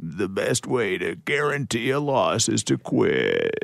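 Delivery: strained character voice. Taking a turn in an impressions game, the speaker does a strained impression voice. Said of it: "You sound like you have to go to the washroom".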